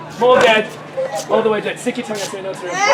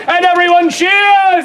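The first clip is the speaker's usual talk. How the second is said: mild cheer cue; 5 semitones higher, 3 dB louder, slower than usual. Acted. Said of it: "announcing the cheer".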